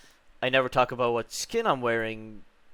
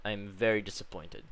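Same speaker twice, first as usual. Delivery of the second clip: disappointed voice; 3 semitones lower, 5 dB quieter than usual. Acted. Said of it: "You can tell by my very disappointed voice".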